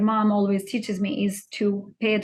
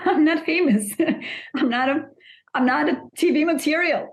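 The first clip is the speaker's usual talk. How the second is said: higher, laughing protest; laughing disbelief; 5 semitones higher than usual. Real, not acted.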